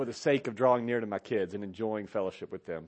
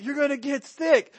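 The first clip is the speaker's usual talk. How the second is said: much higher, louder squeamish warning; mock squeamish dad; 13 semitones higher, 6 dB louder than usual. Dad mocking himself to the congregation, a much higher, louder squeamish warning. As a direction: squeal it like a germ-scared dad. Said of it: "I'm like".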